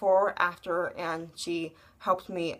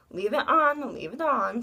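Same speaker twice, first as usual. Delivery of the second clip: raised, insistent nurse voice; quoting the nurse, a bit higher; firm nurse; 5 semitones higher, 3 dB louder than usual. Retold or imitated. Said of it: "and then the nurse said".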